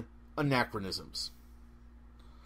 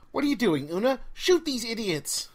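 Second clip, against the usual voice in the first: irritated shout; 5 semitones higher than usual. Acted. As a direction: yell at Una over the gunfire, annoyed. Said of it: "The irritated voice had to shout".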